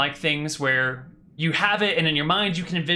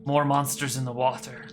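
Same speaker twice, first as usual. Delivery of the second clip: put-on slow, halting foreign-accented storyteller; prince's broken Common. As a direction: recount the ordeal in broken accented English. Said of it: "he switches back to common".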